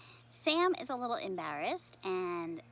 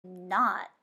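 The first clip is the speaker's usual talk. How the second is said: grumbled; 3 semitones lower than usual. Acted. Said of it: "I grumbled".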